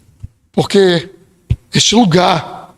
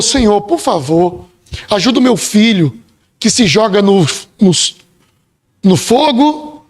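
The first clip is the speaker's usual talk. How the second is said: desperate cry. Retold or imitated. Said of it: "Só entende um clamor".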